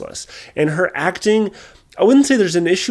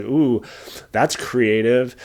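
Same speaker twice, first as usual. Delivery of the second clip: sarcastic; 2 semitones lower, much slower than usual. Retold or imitated. Sarcastic mock praise.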